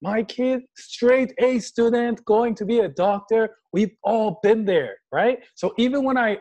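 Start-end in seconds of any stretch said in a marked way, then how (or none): 0.0-3.6 put-on proud Iranian parent, bragging in a Persian accent, higher and louder. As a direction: boast like an Iranian mom at a party, thick Persian accent. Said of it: "when I do the accent".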